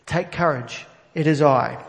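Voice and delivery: loud, ringing "it is I"; booming declaration. Shown as a demonstration. Preacher voicing Jesus to the disciples, booming. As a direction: proclaim it like God speaking. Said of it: "I think I'm a bit overpowering".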